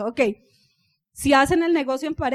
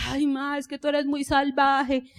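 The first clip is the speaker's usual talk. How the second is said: lazy son; slower than usual. Retold or imitated. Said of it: "el flemático, relajado".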